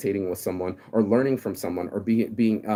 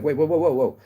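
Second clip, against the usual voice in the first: alarmed protest; 5 semitones higher, 4 dB louder than usual. Retold or imitated. Acting his protest to his ex.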